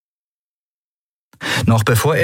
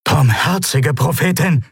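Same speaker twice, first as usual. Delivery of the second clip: a higher, aghast outcry; shocked exclamation; 6 semitones higher than usual. Acted. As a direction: exclaim in dismay, pitch raised. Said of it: "rief Quailor aus". (entsetzter Ausruf)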